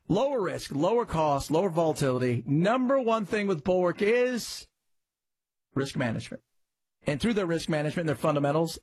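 brisk, upbeat sponsor read. Acted. Radio host pitching a sponsor with a brisk ad read. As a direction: sell it quickly and cheerfully.

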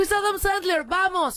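spotting a star and urging friends on; excited discovery. Retold or imitated. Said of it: "Y me asomo y digo".

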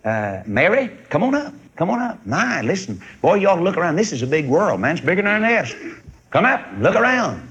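excited eaglet. Retold or imitated. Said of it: "whispers back and said".

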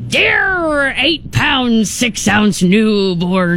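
slow reading. Acted. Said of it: "super appropriate for the speaker to read".

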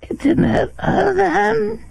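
high, strained mimicry of an interviewee; mock his odd way of talking in a thin high voice; exaggerated high-pitched imitation; mocking impression. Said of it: "Who talks like this?".

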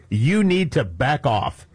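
slow, measured quoted warning; diplomatic flourish. Retold or imitated. Newsreader quotes warning to FDA doctor, slow and deliberate. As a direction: spell out the warning slowly. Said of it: "told with diplomatic flourish".

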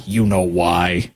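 slow laughing you know why. Real, not acted. Host teasing viewers about the real reason, laughing slowly.

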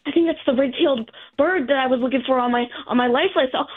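excited. Retold or imitated. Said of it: "she starts freaking out".

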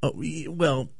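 hedging excuse. Retold or imitated. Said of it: "you wanna go".

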